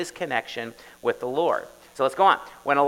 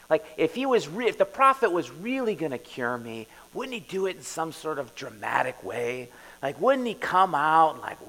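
lightly voiced indignant general; offended Naaman; 2 semitones higher, 4 dB louder than usual. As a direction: whine like a slighted big shot. Preacher voices Naaman's wounded pride.

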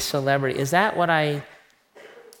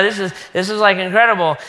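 higher, louder, full of himself; gushing; 4 semitones higher, 4 dB louder, faster than usual. Retold or imitated. Bragging to wife at two a.m., gushing excitement. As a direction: swell with self-importance. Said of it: "And so I'm like".

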